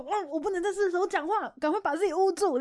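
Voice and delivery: high, fast startled inner voice; hushed surprise. Retold or imitated. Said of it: "你就". (压低声音的吃惊)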